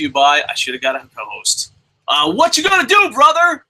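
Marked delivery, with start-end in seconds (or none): 2.1-3.6 higher, louder brash wrestler growl; Hulk Hogan. Retold or imitated. Host does Hulk Hogan's catchphrase to the chat. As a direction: hype it up like a wrestling legend. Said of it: "With Hogan's picture of Hogan on Hogan".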